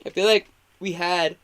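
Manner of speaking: talking through a yawn; words stretched by a yawn. Real, not acted. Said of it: "I guess I'm fucking yawning".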